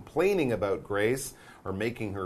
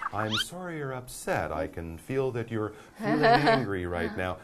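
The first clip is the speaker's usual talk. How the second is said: calm reply; 3 semitones lower than usual. Pretend. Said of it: "You're very calm".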